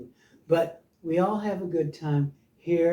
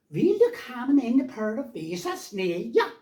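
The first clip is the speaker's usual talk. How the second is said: mock Swedish; 5 semitones higher than usual. Showing how his Swedish family talked, mock Swedish accent. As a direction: drag it out in hammed-up Swedish. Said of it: "then we started talking like this".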